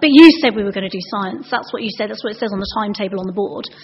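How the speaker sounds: quick protest from a pupil; lightly voiced indignant child; challenging child. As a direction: rattle off the objection, accusing. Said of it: "this child".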